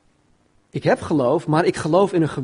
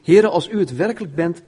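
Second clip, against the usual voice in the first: calling out; 3 semitones higher, 6 dB louder than usual. Acted. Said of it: "Petrus riep".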